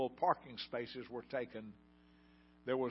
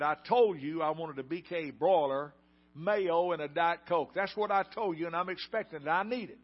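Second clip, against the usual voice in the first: retold angry customer, louder and pushing; angry demand; 3 semitones higher, 5 dB louder than usual. Angry customer at the counter demands her meal, loud and insistent. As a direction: mimic a furious customer insisting on her order. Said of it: "she yells louder".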